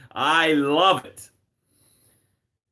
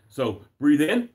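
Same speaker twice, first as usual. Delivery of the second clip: guided breathing. Shown as a demonstration. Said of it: "We're gonna take some deep breaths now".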